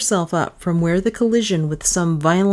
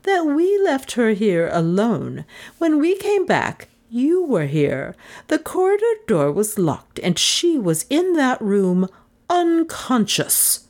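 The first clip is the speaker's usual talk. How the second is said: cold anger; 6 semitones higher than usual. A narrator's reading. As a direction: accuse him coldly. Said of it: "her voice cold with anger".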